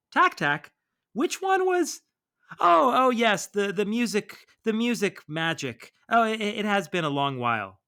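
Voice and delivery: put-on high, loud, flustered old-lady voice; old woman remembering. The widow recalls Tak Tak in a high, flustered voice. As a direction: gush as the memory comes back. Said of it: "she's just like".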